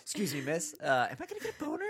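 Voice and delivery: high, quick nervous asking voice; timid customer. Pretend. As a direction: play it sheepish and jumpy. Mock question to masseuse.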